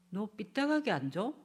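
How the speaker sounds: harsh father, sharper toward the end; stern dad scolding. Shown as a demonstration. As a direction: order the slouching child. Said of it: "이러면 그다음부터 벌써 소통이 안 돼요".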